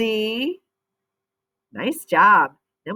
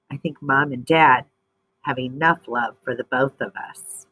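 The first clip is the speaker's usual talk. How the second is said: lively storybook reading voice; expressive read-aloud for young readers; reading to children. Acted. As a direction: read it like a picture book to kids.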